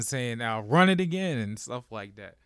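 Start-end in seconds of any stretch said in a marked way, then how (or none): 0.4-1.4 a mock coach's shout, higher and louder; imitating a yell. Coach yelling at players over Zoom, mock shout. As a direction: bark it like a coach. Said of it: "he's yelling".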